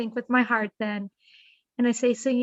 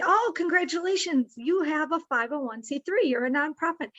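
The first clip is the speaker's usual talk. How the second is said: mock congratulations; 4 semitones higher than usual. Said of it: "they say".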